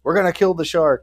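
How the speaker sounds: rally the mob, hammed-up; exaggerated townsfolk battle cry; mock mob vow. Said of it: "then they're all like".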